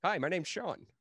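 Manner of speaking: jokey character voice. Acted. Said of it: "here's my, uh, an impression of".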